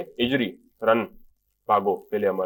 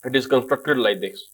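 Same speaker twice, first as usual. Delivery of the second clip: slow explaining; much slower than usual. Shown as a demonstration. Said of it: "مبنی اسم مطلب وہ بنایا ہی ایسے گیا ہے".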